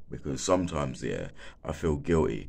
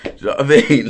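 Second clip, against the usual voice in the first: exclaiming; 11 semitones higher, 15 dB louder, much faster than usual. Real, not acted. Worked-up rant about the stands.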